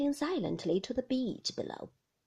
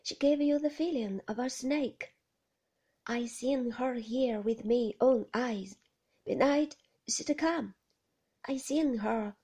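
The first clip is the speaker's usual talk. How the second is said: voiced aloud, louder, an odd old man telling a tale; simple old man, eager and louder; Ben's voice; 3 dB louder than usual. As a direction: lean in as simple Ben, full of his secret. Ben tells of the woman.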